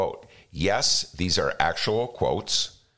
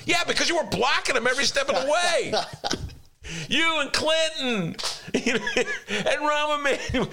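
heated rant. Real, not acted. Ranting at centrist friends.

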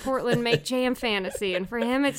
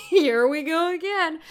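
laughing; 7 semitones higher, 5 dB louder than usual. Real, not acted. Laughing through the line.

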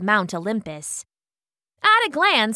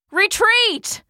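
high, urgent call; high-pitched order to fall back; Paris calling retreat; 11 semitones higher, 4 dB louder than usual. A narrator's reading. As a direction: call out sharply over a battlefield, pitch leaping up. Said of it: "called Paris".

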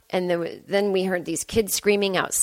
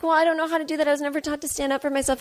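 mock whiny excuse; 7 semitones higher, faster than usual. Mocking the whiny self-pitier.

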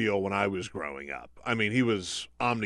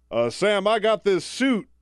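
Fritz Hollings; 7 semitones higher, 3 dB louder than usual. Acted. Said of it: "And Hollings look, opens up his jacket".

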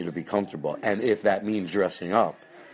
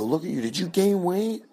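much higher syrupy fake concern; high sugary backhanded hostess; 11 semitones higher than usual. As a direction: needle the guest sweetly. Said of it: "I go".

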